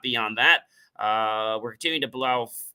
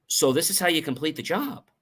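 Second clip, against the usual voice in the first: "job" lifted at the end, higher pitch; rising tune; 4 semitones higher than usual. Shown as a demonstration. Coach showing one reading, rising on "job". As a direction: lift "job" as if inquiring. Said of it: "That could go one way".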